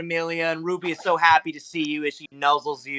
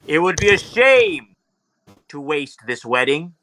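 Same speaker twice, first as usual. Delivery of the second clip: grand proclamation from the heavens; stately, commanding father god; booming Zeus voice; 2 semitones higher than usual. Acted. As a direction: announce it like a god, with long pauses. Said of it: "a large booming voice".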